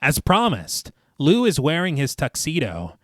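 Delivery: measured, lilting storyteller read; story narration. A narrator's reading. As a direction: narrate the scene phrase by phrase, each falling to a close. Reads the film rewrite aloud.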